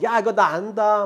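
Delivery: showing off with slow relish; cocky show-off. Retold or imitated. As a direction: imitate a cheeky know-it-all beginner. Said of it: "막 까불어".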